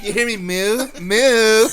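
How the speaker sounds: high, loud laughing moo; laughing cow call. Retold or imitated. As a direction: call the cow while cracking up. Cow-calling bit.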